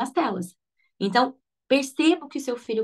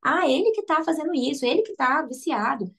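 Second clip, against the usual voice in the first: higher mock complaint about the child; blaming parents; 4 semitones higher than usual. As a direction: whine that it's all the kid's fault. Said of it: "os pais, eles responsabilizam a criança".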